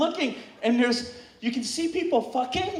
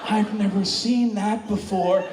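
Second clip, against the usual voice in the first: baffled onlookers; 5 semitones lower, slower than usual. Retold or imitated. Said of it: "everyone's kinda like".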